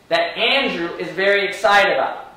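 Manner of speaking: slow, each word weighed: "That Andrew is very excited about"; stress on Andrew. Shown as a demonstration. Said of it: "See what I just did?".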